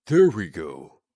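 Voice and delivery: loud voice through a filter. Real, not acted. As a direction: talk through a voice changer. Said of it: "the voice filter was not on".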